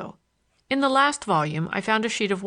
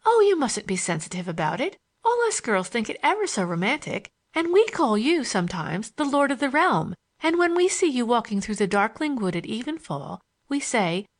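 lightly voiced schoolgirl, lilting upward; a hint of a romantic young girl; 3 semitones higher than usual. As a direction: tease him with a slight girlish lilt.

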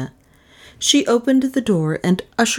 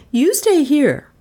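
loud, high, slow command; raised-voice, deliberate order; 10 semitones higher, 5 dB louder than usual. A narrator's reading. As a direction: order the dog to stay, firmly. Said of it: "Melissa ordered".

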